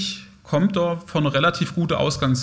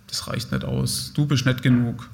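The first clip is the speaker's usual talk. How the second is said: hushed voice telling you you're not enough; inner critic whisper. Acted. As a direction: breathe it out like a voice in your head.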